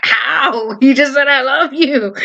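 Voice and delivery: laughing disbelief. Retold or imitated. Laughing at brother's joke.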